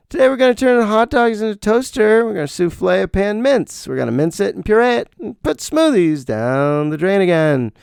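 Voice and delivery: high, bubbly TV chef patter; over-the-top celebrity chef voice; Rachael Ray chef mode. Retold or imitated. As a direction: ham up a perky cooking-show host. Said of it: "Rachael Ray celebrity chef mode".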